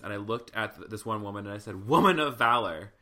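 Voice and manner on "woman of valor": loud, fired-up preacher call to the congregation; Pentecostal preacher call. Retold or imitated. Speaker preaching at a student crowd, loud Pentecostal call. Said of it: "full, like, Pentecostal".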